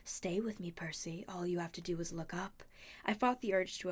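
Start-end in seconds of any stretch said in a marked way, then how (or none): 0.0-2.6 hushed, breathy coaxing; soothing. A narrator's reading. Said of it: "she told me soothingly".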